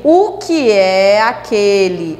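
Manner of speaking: slow, joined-up "o que é aquele"; "que é" glided into one sound; linked syllables. Shown as a demonstration. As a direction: draw out "o que é aquele" with "que é" run together. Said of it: "esse que é, ó, fica todo juntinho".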